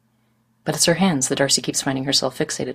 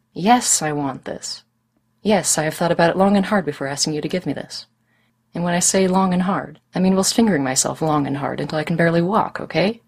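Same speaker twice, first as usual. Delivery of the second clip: excited insisting. Acted. Darcy insists she wants this.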